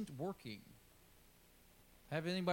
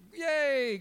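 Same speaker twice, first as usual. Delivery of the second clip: high, eager retelling of the people's joy; a hammed-up cheer, louder and higher; mock cheering; 7 semitones higher, 5 dB louder than usual. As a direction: play up their naive excitement. People cheering God's deliverance.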